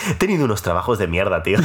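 said through a laugh. Real, not acted. Podcast guest telling friend about lousy past jobs, laughing. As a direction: let a laugh run into the words.

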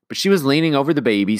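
plain reading voice

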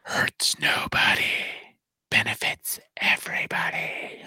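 breathy whispered Biden impression. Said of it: "I wanted to go with the Biden".

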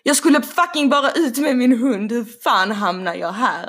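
exasperated, voiced outburst of disbelief; indignant retelling of own thought. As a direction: complain it out in full voice. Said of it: "jag tänker på mig, för mig själv".

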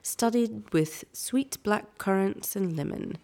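put-on light British accent, reading the tea label; a touch of a posh British read. Friend reads tea label in British accent, lightly done. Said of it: "read this in a British accent".

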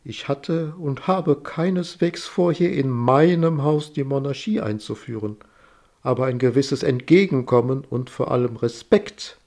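slow and calm. Acted. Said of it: "Langsam und ruhig führt sie aus".

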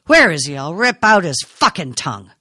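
loud threatening yell; storming, wants to find him now; an angry son threatening his brother; furious shout. A narrator's reading. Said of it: "he shouted".

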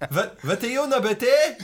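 high-pitched mock reply through laughter; hammed-up high voice, half laughing; imitating baffled woman. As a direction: play her puzzled, pitched well up. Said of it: "She's like".

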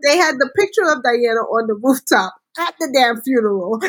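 talking through laughter; words breaking into laughs; laughing. Real, not acted. Laughing while recounting the show.

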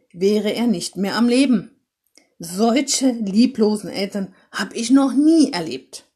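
lauter, strenger Vorwurf; empört die Eltern zurechtweisen; zorniger Weihnachtsmann. Acted. Weihnachtsmann schimpft Eltern aus. (der Weihnachtsmann tadelt die lieblosen Eltern, laut und zornig)

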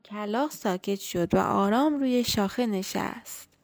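gentle bedtime storytelling voice; story narration. A narrator's reading.

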